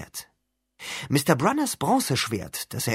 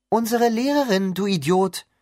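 high, loud scornful snap; 9 semitones higher, 5 dB louder than usual. Acted. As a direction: spit out the insult. Girl insults Percy.

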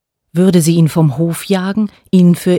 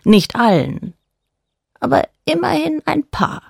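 dark god voice; 3 semitones higher than usual. A narrator's reading. Dark god Gofennen speaks.

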